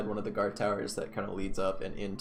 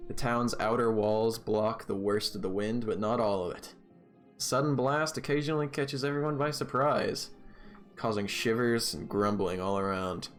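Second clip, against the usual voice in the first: steady scene-setting storyteller voice; game master narration. Acted. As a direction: paint the scene for the players. DM sets the scene.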